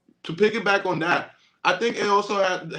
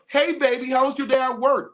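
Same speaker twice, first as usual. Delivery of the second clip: higher-pitched, eager greeting for a partner; sweet welcome home; 7 semitones higher, 4 dB louder than usual. Acted. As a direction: greet him sweetly at the door. Acts out greeting her man home.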